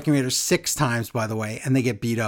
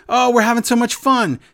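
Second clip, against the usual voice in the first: higher, louder, forced cheerful party voice; mock excitement; 8 semitones higher, 6 dB louder than usual. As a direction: fake enthusiasm for a wild uncle. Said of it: "You're gonna be like".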